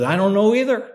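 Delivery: voiced expert. Retold expert's reply.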